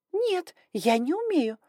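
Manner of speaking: put-on high, slow frightened girl; protest, panicked; exclaimed. A narrator's reading. Young girl refusing the dragon lord, high and alarmed. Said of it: "воскликнула Инга".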